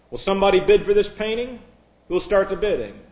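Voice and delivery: lightly voiced auctioneer calling for bids. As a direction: put the question out to the bidders.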